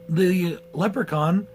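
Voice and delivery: slow, drawn-out mock Leprechaun voice with a long rise; mocking the movie's Leprechaun. Shown as a demonstration. Reviewer mocks the film's Leprechaun voice, slow and drawn out. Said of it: "he sounds like this".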